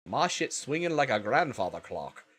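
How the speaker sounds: rough, amateur Australian accent; attempted Aussie accent. Shown as a demonstration. Streamer who can't do accents tries one, bad Aussie accent. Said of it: "wish I could do a proper Aussie accent".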